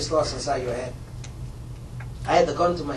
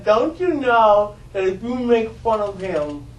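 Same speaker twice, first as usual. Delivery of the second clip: mother's warning; slower than usual. Retold or imitated. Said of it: "She says".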